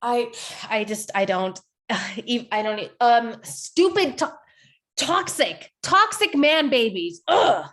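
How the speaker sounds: flustered fury that finally bursts into the insult; sputtering angry. Acted. Kennedy too furious at the guys to finish a thought, sputtering. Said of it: "She's so angry she can't complete a thought".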